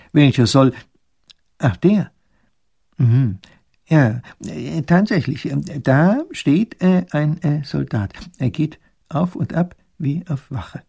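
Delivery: höher, stockend mit vielen Ähs; zerstreuter Professor. Acted. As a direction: ein verwirrter alter Gelehrter sucht die Worte. Professor stockt, sucht Worte. (zerstreuter Professor, höher und stockend)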